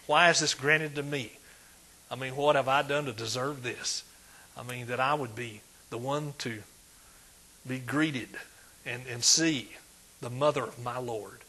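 low, softened, humble wonder. Acted. Preacher voicing Elizabeth's humility before Mary, humble and soft. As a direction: say it gently, in humble disbelief. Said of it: "there's some humility on this, on her part".

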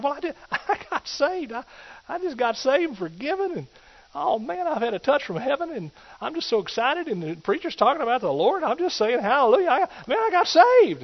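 high, exultant and rising; he can't contain the joy; overjoyed saved man. Acted. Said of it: "He said".

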